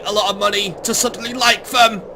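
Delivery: a Pope in a mock Italian accent whining about England. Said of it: "I'm making it Italian because I can".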